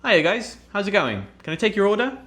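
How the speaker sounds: high, cheery waiter greeting; bright Pizza Hut server voice; friendly waiter. Retold or imitated. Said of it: "I wanted to come across really friendly".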